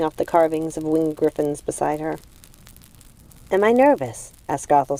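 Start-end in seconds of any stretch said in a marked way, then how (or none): 3.5-4.3 surprised. Acted.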